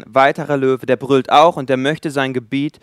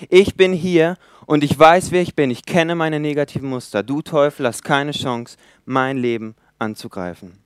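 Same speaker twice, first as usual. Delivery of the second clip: roaring at the devil; 2 semitones higher than usual. Pretend. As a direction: proclaim it like a lion roaring its territory. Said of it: "hinein brüllt, um den Teufel zu sagen".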